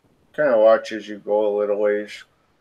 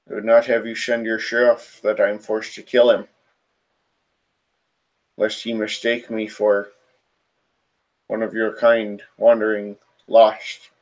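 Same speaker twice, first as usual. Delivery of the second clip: deep throaty spirit. Acted. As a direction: announce yourself like an ancient, animalistic spirit. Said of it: "in this deep, throaty voice".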